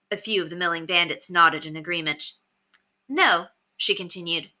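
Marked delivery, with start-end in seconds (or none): 3.1-3.5 high-pitched woman's voice, pressing the challenge; challenging bandit woman. A narrator's reading. Bandit woman doubts her leader before the crowd, challenging. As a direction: confront the leader in a raised female pitch.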